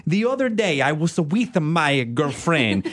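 sweet Italian director voice; Italian accent. Retold or imitated. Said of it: "say something horrible like".

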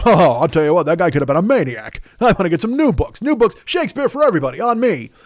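lightly hammed-up Dangerfield bluster; imitating Rodney Dangerfield. Telling a college kid about his books, Rodney-style. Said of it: "And Rodney goes".

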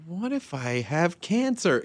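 slow, high-pitched fretting; anxious night thought. Retold or imitated. Waking at night with worries, mock anxious.

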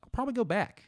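high, sheepish admission. Real, not acted. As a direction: squeak it out, a bit guilty.

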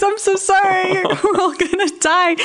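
high wailing imitation with a laugh; hammed-up doomed cry, high; mock panic. Imitating dad screaming in the crash, high mock panic. Joins in mocking dad's panic.

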